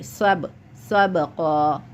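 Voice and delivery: सबका with a bouncing echo on the b; qalqalah. Shown as a demonstration. Teacher shows qalqalah to student, सबका with bounced ब. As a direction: bounce the ब in सबका before a long final vowel. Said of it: "कलकला आ गया तो आप यहाँ पे हिलाएंगे".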